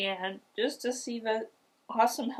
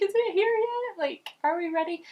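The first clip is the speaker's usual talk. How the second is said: high and loud, eager; can't wait another second; impatient excitement; 13 semitones higher, 4 dB louder than usual. Retold or imitated. Mother pushing asks if the baby is there, high and impatient. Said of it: "I'm like".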